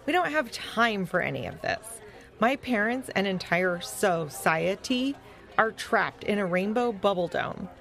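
mildly exasperated protest; very annoyed. Acted. Lupo protests eating during a crisis, mildly annoyed. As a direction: press the complaint with emphatic stresses. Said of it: "acting very annoyed".

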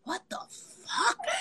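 high, stunned what the fuck; jaw-drop disbelief, voice jumping up; shocked disbelief. Retold or imitated. Both stunned at the huge set.

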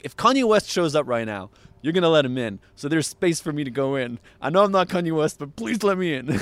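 retold urgent plea, voice rising as it goes; pleading. Man begging a doorman for entry, pleading.

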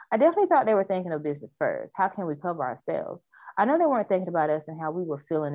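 steady news anchor read; news reporter voice. Acted. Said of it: "my news reporter voice on".

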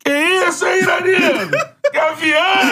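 high teasing yell breaking into laughter; mocking fan shout. Fans tease Iranildo about his girlfriend, high laughing jeer. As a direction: jeer at him like the crowd, laughing.

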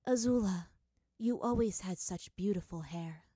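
understated wistful mother; a touch of sorrow, addressed tenderly to a daughter; mournful. Acted. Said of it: "Even her voice sounded mournful".

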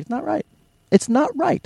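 high-pitched protesting quote; mock complaint. Listener reacting to a replacement voice, mock complaint. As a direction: voice a put-off listener, pitched well up. Acts out listener rejecting new voice.

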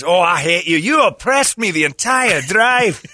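high, loud aggrieved whine; mock outrage. A friend blaming the driver, mock aggrieved outrage. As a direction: accuse him like a betrayed friend. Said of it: "he voiced accusing".

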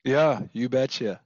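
slow, drawn-out Minnesota accent. Shown as a demonstration. Guest answers about being born there, in a Minnesota accent. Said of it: "that Minnesota accent on a whim".

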